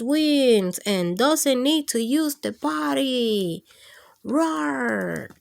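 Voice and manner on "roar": a breathy whispered roar. Acted. Reading to kids, dinosaur roars in a tiny whisper.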